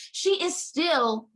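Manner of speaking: slowed right down for effect; slow emphasis. Real, not acted. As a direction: drag it out for emphasis.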